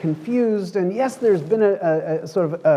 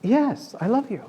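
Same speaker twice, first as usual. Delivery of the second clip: squirming; 6 semitones higher than usual. Retold or imitated. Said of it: "Peter squirming a little bit".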